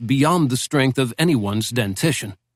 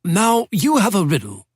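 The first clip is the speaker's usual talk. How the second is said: put-on a lightly raised, genteel old don's voice; old British professor; 7 semitones higher than usual. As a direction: speak as a wry Oxford professor reminiscing. Professor speaking.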